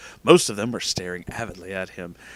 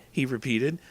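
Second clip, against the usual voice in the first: usual speaking voice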